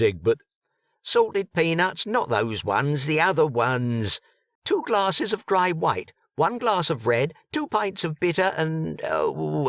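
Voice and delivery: lightly voiced punters calling orders; busy bar crowd. A narrator's reading.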